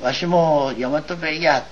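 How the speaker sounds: slow, hesitant, embarrassed admission; shyly. Retold or imitated. Second Shinbashiya head owning up before the council, slow and shy. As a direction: say it as if ashamed to confess it. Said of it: "恥ずかしそうに言わないで".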